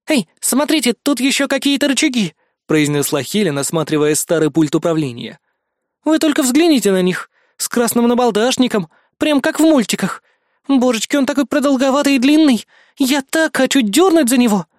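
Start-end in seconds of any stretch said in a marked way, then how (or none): 0.1-2.3 excited discovery. Acted. Helen excitedly finds levers. 6.0-14.7 put-on high, gushing girlish glee; giddy excitement. Helen gushing to her teammates about the lever, excited.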